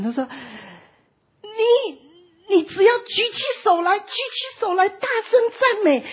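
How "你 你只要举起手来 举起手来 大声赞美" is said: loud, high call downward. Retold or imitated. Servant shouting down to the man on the hill. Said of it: "然后他就这样往下喊啊".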